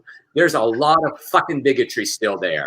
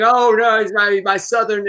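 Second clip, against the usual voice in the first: mocking Southern defender; 6 semitones higher than usual.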